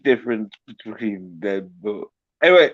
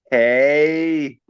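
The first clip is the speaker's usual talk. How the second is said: American upspeak; slower than usual. Shown as a demonstration. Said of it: "I'm speaking American upspeak".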